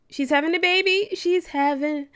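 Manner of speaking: quick, high burst of news; excited. Real, not acted. Gamer telling viewers her Sim is giving birth, excited and fast. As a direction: blurt it out fast and thrilled.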